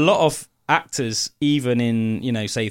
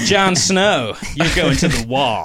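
mock American; slower than usual. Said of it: "it would sound a bit weird".

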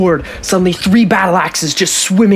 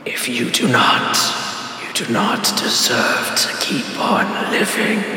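slow, booming villain proclamation; 3 semitones lower, 5 dB quieter, slower than usual. Acted. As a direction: boom it out like a giant specter. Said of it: "in a booming voice".

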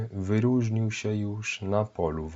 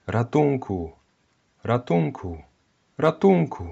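louder, building to a piercing high scream; desperate cries for help; 5 semitones higher, 7 dB louder than usual. Acted. Woman thrown down by the blast, screaming for help. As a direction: shout for help, rising to a scream. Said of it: "Rozdzierający kobiecy krzyk".

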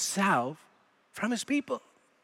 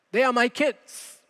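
quoting a wife, higher pitch, leaning on "my"; "my" stands out in a raised-pitch quote; stress on MY; 4 semitones higher than usual. Retold or imitated. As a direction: claim them with emphasis on "my". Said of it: "the emphasis is on the word my".

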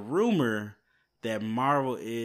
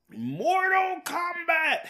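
high, slow, stretched Mortal Kombat announcer; game announcer; 6 dB louder, much slower than usual. Pretend. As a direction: bellow the title like the game's announcer. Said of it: "that was weird, I know, but I just had to do it".

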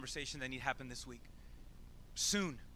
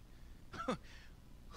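a breathy, high, sneering scoff; mock scoffing laugh; 9 dB quieter than usual. Sceptic in the crowd mocks Jesus, a sneering laugh. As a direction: scoff at the idea. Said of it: "talks under his breath sarcastically".

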